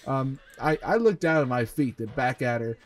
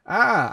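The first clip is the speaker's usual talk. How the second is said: short, raised mock yelp; a brief, louder pretend scream; 8 semitones higher, 6 dB louder than usual. A narrator's reading. Reader acting out Colton's pain as he is stitched, mock scream. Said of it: "I screamed that time".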